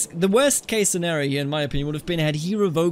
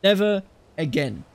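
solemn oath. Pretend. Player swears the emperor will never hold such power again, grand oath. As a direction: proclaim it like a vow before the court.

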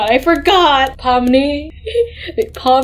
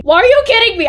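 high-pitched indignant outburst; can't believe it, voice shooting up; exasperated disbelief; 10 semitones higher, much faster than usual. Real, not acted. Thrown back to the circus.

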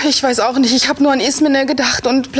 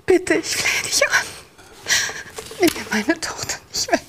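pleading. Acted. Mother begs to keep daughter.

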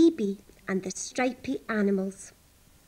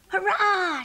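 high, cheering hurrah; excited shout; 9 semitones higher, 4 dB louder than usual. A narrator's reading. Sheep thrilled to visit the park again, cheering high. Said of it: "shouted the sheep".

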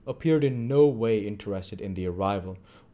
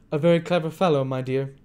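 Fagin voice; 7 semitones higher, 7 dB louder than usual. A narrator's reading.

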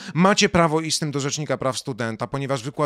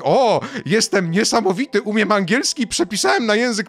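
higher, self-impressed mockery; mock boasting; 6 semitones higher, 4 dB louder than usual. Mocking the professor who translated others' work, boastful mock voice. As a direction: play a professor showing off, in a higher voice.

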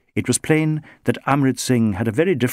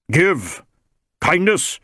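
deep contempt; 7 semitones higher, 3 dB louder, slower than usual. A narrator's reading. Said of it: "with deep contempt".

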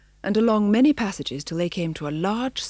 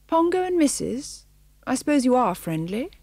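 much higher wary cat voice; a sharp wary cat; tabby cat; 6 semitones higher than usual. Acted. Tabby cat up a tree greeting the dogs, wary.

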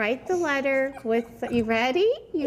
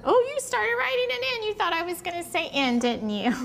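playful surprise; 7 semitones higher than usual. Real, not acted. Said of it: "teacher playfully tricks kids".

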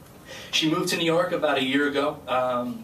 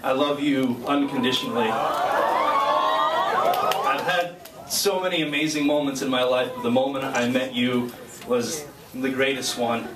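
sincere declaration. Real, not acted. Public declaration to girlfriend.

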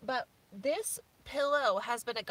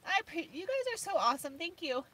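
higher, tearful gratitude; emotional; 4 semitones higher than usual. Real, not acted. Thanking viewers for the treats donation, choked up. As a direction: gush thanks through real tears. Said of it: "I'm getting all emotional".

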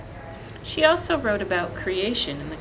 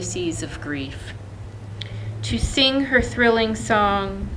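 poem recital. Acted. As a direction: let each line land, then rest. Reads a poem aloud.

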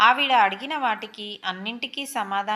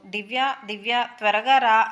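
calling out for help, near tears, louder at the end; a mild mock crying call for her friend; retold frightened cry for help; tearful call; 3 dB louder than usual. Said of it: "అని ఏడుస్తూ పిలిచాను".

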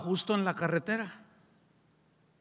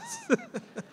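high laugh. Real, not acted. Risa tras anécdota.

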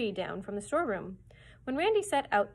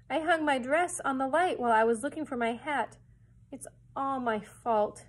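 tearful; 4 semitones higher, 6 dB louder than usual. A narrator's reading. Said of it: "she began to cry again".

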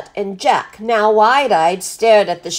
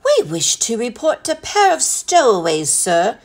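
composed butler; 3 semitones higher than usual. Acted.

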